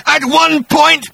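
high, loud, slow menacing monster voice; hissing creature. Acted. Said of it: "he hissed".

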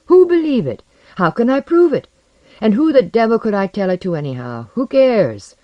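high, loud, urgent confession; distraught outpouring. A narrator's reading. Visitor telling his friend of an empty return, distraught. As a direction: pour it out, pitch leaping on the questions.

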